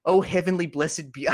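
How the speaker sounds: put-on Australian accent. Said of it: "I can't do a fucking Australian accent".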